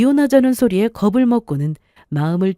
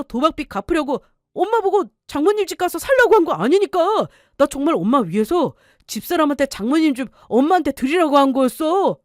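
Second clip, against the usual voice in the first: higher, pleading with his mother; a hint of a son begging to be believed; 8 semitones higher than usual.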